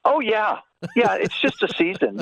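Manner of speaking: high-pitched imitation of a Wisconsin accent; Gantner. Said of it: "Gantner's like".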